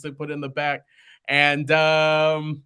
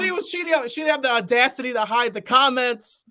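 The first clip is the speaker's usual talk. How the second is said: mock outrage; 9 semitones higher than usual. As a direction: shout it like it still stings. Outrage over cheating ex.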